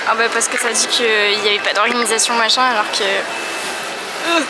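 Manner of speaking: angry rant. Real, not acted. Angry about exam critique.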